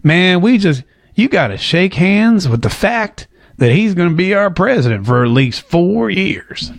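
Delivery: lightly imitated slow easygoing McConaughey; laid-back McConaughey drawl. Vlogger quoting McConaughey's cool, laid-back phrasing. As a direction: ease into it like a cool Texan. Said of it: "he says".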